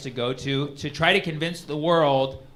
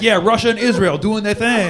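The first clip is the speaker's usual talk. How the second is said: mock cheerful endorsement; 6 semitones higher, 8 dB louder than usual. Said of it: "You never hear, like".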